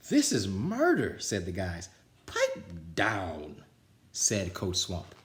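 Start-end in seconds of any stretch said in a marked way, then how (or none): 0.1-1.2 much higher, slow, louder complaint; whining players. A narrator's reading. The team moans at the brutal training, high slow whine. 2.3-3.6 lower, curt order; gruff coach. A narrator's reading. Coach silences the complaining team, low and curt.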